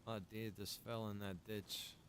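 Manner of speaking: normal talking voice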